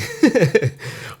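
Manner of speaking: high laugh. Real, not acted. Laughs at slang meaning.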